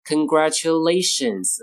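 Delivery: "congratulations" with tu reduced to a short "chuh"; third syllable "ch". Shown as a demonstration. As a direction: say "congratulations" as con-gra-chuh-LAY-shuns. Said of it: "可以读成ch".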